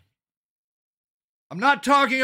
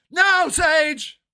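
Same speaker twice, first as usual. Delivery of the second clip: raised mock scolding; imitated yell; 4 semitones higher than usual. HOA president refusing the canvasser, mock yelling. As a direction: cut him off with a high mock yell. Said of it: "I got yelled at".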